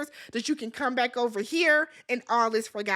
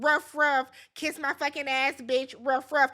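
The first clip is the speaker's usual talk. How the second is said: mock barking. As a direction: bark the ruffs like a yappy dog. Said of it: "Shamea starts barking".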